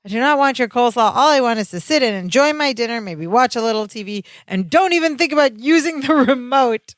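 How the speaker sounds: brisk, mildly irritated rant; mock angry. Larry wanting to eat dinner in peace, mildly angry. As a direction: imitate a fed-up man laying down rules. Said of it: "He's just angry".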